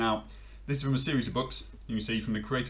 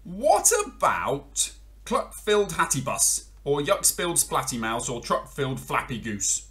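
a keen dog pitching silly ideas; eager dog; 5 semitones higher, 4 dB louder than usual. Acted. Dog suggests rhymes to frog, lightly voiced eager.

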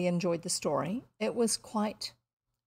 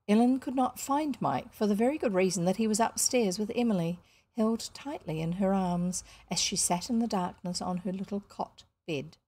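measured storybook reading; even-voiced novel narrator; story narration. A narrator's reading. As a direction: narrate the scene with care, pausing between phrases.

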